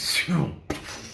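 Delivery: airy voiceless rush of speed; imitated whoosh. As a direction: blow out a soft whooshing noise. They started using mad speed.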